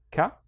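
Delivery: "ka" short and separate; short syllable demo of "ka"; isolated syllable. Shown as a demonstration. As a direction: sound out "ka" on its own. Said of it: "The first one is".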